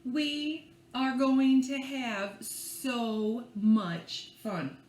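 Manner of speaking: slow, drawn-out storybook read; slow excited storybook voice; story reading. A narrator's reading. Reads the story aloud to children.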